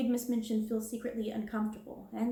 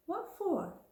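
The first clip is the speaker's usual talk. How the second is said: higher, bitter what for; girl questioning the headmistress, defiant; 8 semitones higher than usual. Acted. Sarah defies Miss Minchin.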